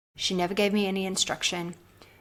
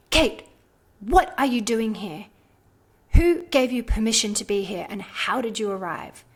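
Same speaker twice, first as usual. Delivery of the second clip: startled demand; 2 semitones higher, 5 dB louder than usual. Retold or imitated. Mentor confronting her in dream.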